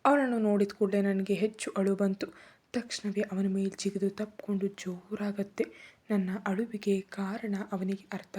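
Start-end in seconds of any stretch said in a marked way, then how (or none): none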